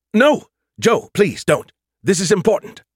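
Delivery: high, loud, urgent plea; pleading. A narrator's reading. Skippy begging Joe not to jump away, pleading. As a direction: beg him not to go, pitched right up. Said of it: "There was pleading in his voice".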